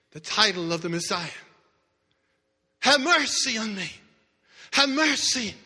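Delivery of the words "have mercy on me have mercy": repeated plea. Acted.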